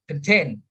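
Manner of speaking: contain stressed on TAIN; light first syllable, strong second in contain. Shown as a demonstration. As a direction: say con-TAIN. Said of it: "the second syllable is stressed".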